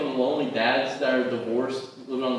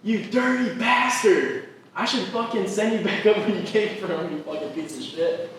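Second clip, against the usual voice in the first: high-pitched, drawn-out outraged mom yell; imitating a mother's furious scolding; angry mom; 8 semitones higher, 3 dB louder than usual. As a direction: scold like an outraged mother, starting loud and high, easing off by the end. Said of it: "She goes".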